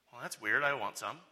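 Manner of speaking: low, casual aside in character; puzzled reply. Acted. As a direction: answer as a baffled but willing listener. Acts the baffled listeners' reply.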